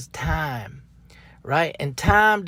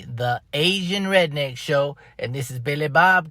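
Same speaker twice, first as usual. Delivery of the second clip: show announcer; 2 semitones lower than usual. Shown as a demonstration. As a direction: announce the show title grandly. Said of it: "the one and only".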